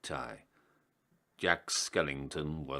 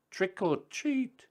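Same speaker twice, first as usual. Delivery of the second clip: high, slow squeaky creature shout; creatures yelling. Acted. Weird little creatures yelling at Santa's door, high squeaky shout. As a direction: shriek it like little monsters at the door. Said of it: "and they yelled".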